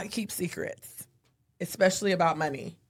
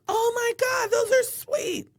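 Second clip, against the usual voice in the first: mock excited gush; slower than usual. Wife mimicking her reaction to husband's new shoes, gushing. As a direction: gush over the shoes, hammed up.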